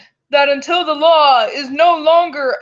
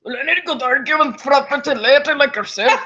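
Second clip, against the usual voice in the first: a hint of a smarmy judge; flirty judge; faster than usual. Judge hitting on a pretty lady, lightly put-on smarmy voice.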